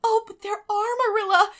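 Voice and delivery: high, loud, eager insistence; eager cry. A narrator's reading. Anne insisting to Marilla that ghosts exist, eager. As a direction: burst out to convince her. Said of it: "cried Anne eagerly".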